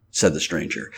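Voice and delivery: usual speaking voice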